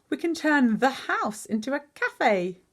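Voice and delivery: high, slow, emphatic announcement; excited plan. A narrator's reading. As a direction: reveal the big plan with relish. Father reveals his plan.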